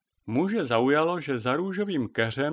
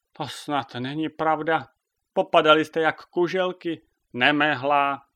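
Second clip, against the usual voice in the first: loud, raised telling-off; exasperated scolding; 4 semitones higher, 6 dB louder than usual. A narrator's reading. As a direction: berate a hopeless squad. Sabina scolds the fallen hens. (podrážděné plísnění)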